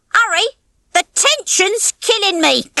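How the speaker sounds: high-pitched, gleeful jeer; cackling. A narrator's reading. Nick watches the slingshot from the bleachers, cackling. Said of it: "Nick cackled".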